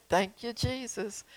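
soft, slow grateful thanks; smiling thanks. Shown as a demonstration. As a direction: smile and thank Jesus gently, slowly. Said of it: "just smile and say".

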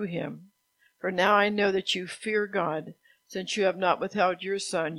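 projected, even read-aloud; scripture reading. A narrator's reading. Preacher reads Abraham's story from Genesis, scripture reading. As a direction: read the Bible story out to a congregation.

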